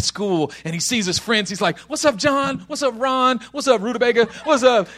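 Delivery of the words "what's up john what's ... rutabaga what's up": lightly acted schoolboy hellos; casual greeting. Teenager greeting his friends at school, breezy. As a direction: toss out quick greetings to pals.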